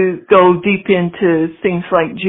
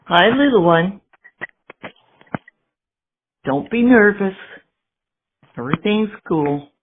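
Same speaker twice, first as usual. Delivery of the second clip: soothing pet talk. Pretend. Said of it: "keep talking to him for me".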